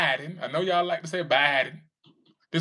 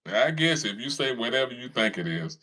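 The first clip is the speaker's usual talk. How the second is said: ordinary delivery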